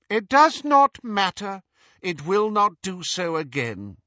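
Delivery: cool, loud, high dismissal. A narrator's reading. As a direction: shut him down coolly. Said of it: "said Hermione coolly".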